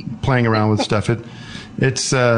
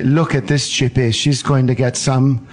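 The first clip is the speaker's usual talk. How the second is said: imitated German porno narrator; lightly hammed German-accented voice-over; Werner Herzog. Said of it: "he'd say".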